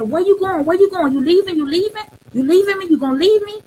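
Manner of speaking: put-on high, anxious child's pleading; a worried boy begging not to be left. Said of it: "he instantly jumped up and said".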